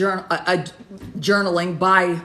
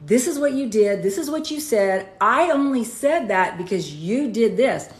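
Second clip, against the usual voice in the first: retold protest, higher and firmer; heated insisting; 4 semitones higher than usual. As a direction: push back hard, pitch up. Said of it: "I would sit there and go".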